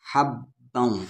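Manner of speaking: हब्बऊ with doubled b and nasal held ending; merged into waw. Shown as a demonstration. Teacher joining ba into waw, हब्बऊ merged nasally. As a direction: hold the ऊ of हब्बऊ humming in the nose. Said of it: "वाव में मिलाएंगे".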